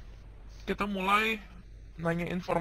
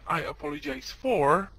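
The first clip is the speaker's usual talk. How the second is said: slow and higher, drawn out; slow model phrase; 7 semitones higher, slower than usual. Shown as a demonstration. Teacher modeling the phrase slowly for students. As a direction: lift it and stretch each word. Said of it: "Ketika kita ngomong kayak gini ya".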